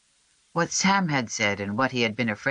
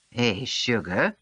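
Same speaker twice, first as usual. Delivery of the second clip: softly; slower than usual. A narrator's reading. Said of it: "she said softly".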